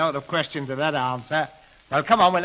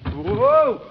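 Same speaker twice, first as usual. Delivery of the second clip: startled yelp; 9 semitones higher, 7 dB louder than usual. Acted. Bumps into table in dark.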